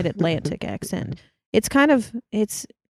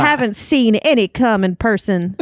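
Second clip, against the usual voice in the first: attempted Mid-Atlantic film accent, raised; 4 semitones higher, 4 dB louder than usual. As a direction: try a 1940s Mid-Atlantic voice. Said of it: "try and do a mid-Atlantic accent".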